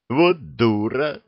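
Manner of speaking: slow exasperated moan; long-suffering groan at the witch. Acted. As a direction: groan it out in despair. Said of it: "простонал дракон".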